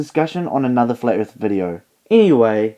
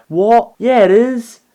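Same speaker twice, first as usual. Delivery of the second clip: higher and louder, indignant denial; squeaky outraged "What? Yeah"; indignant flat earther; 8 semitones higher, 5 dB louder, slower than usual. Retold or imitated. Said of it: "the flat earther is like".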